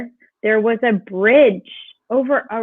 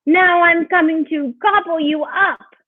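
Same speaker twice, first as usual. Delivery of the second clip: higher storybook troll threat; roaring troll; 7 semitones higher than usual. A narrator's reading. Troll coming for the biggest goat, roaring. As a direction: threaten as a troll climbing to attack. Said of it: "The troll's roaring out now".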